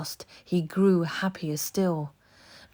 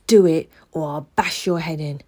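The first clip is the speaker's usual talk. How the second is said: menacing threat; 9 dB louder than usual. A narrator's reading. Sikes raises fist.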